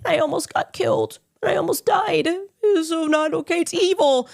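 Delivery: high, mocking whine of a victim; mocking whiny victim. Mocking a rival's claim he almost got killed, high whine. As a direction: mimic him crying that he almost died. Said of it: "And now he's like".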